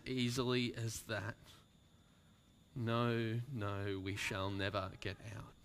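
frantic then hopeless; despairing outburst. Acted. Stranger raving that they will never escape.

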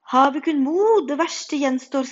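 loud, slow heroic shout; knight's shout. A narrator's reading. Knight calls back from a painting, loud shout. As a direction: cry it out to spur them on. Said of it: "skrek ridder".

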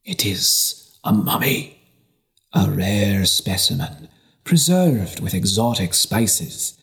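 lightly voiced merchant selling a mouse as a relic; showman merchant pitch. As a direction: cast a spell of wonder over the bishop. Isaac sells the mummified mouse.

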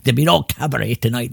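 lightly voiced club owner; quick, mild imitation of a stage announcement; a hint of the venue boss addressing the house; Buddy. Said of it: "That's the way Buddy spoke".

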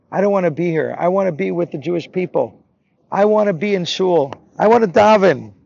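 an acted boy's wistful longing, rising in force; tearful plea. Boy left alone longing for shul, mildly tearful. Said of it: "he just cried".

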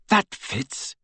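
breathless gasp of realisation. A narrator's reading. Hermione works out the mystery, gasping. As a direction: gasp as the pieces click. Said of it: "gasped Hermione".

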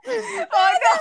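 laughing. Real, not acted. Breaks into laughter mid-reading.

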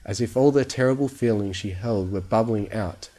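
ordinary delivery, nothing marked

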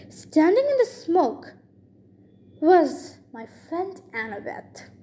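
animated read-aloud storytelling; story narration. A narrator's reading. Reader tells of the hero charging the giant, story narration. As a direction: narrate the action with lively emphasis.

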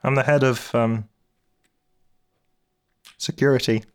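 high, loud deadpan guard; a blank-staring guard speaking stiffly; odd guard Torpek. Acted. Torpek the head of security introduces himself to Binky, high and loud.

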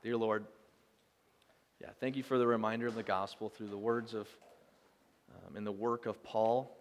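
gentle, unhurried prayer voice; closing prayer. Acted. Pastor closing the sermon with a prayer, gentle and unhurried.

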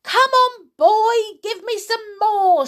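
high, loud, impatient call; demanding yell. A narrator's reading. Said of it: "she yelled".

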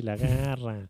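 squeaky little alien chanting; awed toy alien voice, quiet and hushed; Toy Story alien voice. Retold or imitated. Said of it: "con la voz de los marcianos de Toy Story".

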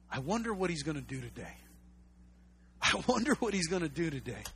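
softly wondering aloud; musing. Acted. Muses as someone awaiting Jesus.

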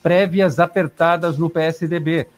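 radio headline read; news read. Acted.

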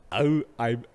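loud mock howl on each opening sound; exaggerated, punched imitation, American-style; American take on Schwarzenegger. Shown as a demonstration. Showing how Americans imitate him, hammed-up. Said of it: "so machen die Amis".

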